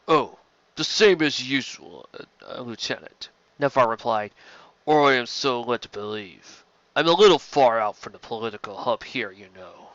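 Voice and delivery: slightly put-on voice, hedging politely; sly alien administrator. Nartan administrator Nonvar replies.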